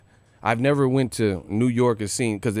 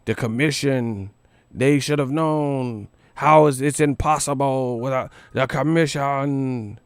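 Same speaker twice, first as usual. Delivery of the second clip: mocking critics; slower than usual. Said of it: "They say".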